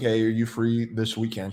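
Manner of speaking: normal talking voice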